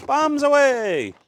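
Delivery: high, drawn-out loud call; mock battle cry. Host dumping out the trays, mock bombardier's long call. Dropping the parts out.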